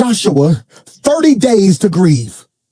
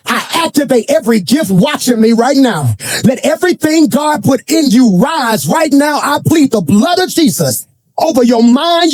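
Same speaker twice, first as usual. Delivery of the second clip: rousing faith declaration; 2 semitones higher than usual. Real, not acted. Preaches declaration over congregation.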